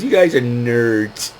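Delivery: slow, drawn-out retold jeer; mock taunt. Little girl taunting the wrestlers, slow mock jeer. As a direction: stretch out a kid's playful insult.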